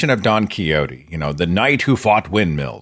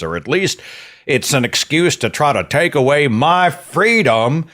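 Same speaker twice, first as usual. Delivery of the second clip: mock conspiracy believer; 3 semitones higher than usual.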